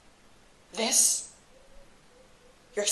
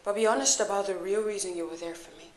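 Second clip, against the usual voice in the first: low, soft, held-back confrontation; softly spoken, controlled hurt; quiet reproach; 5 semitones lower, 10 dB quieter than usual. Acted. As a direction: keep the accusation low and quiet. Hurt confrontation, holding anger in.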